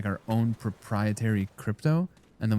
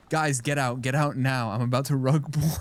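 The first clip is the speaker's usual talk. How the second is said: higher, playful insider tip-off; mock urgent warning; 3 semitones higher than usual. Streamer as scammer warns Discord insiders, mock urgent warning. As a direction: pretend to warn your pals in a hurry.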